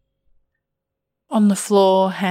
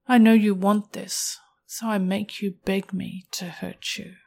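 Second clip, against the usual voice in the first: erotic story narration; 3 dB louder than usual. A narrator's reading.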